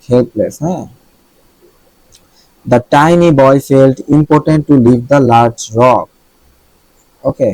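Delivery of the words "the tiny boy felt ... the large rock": slow dictation reading. Shown as a demonstration. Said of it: "reads example sentence slowly".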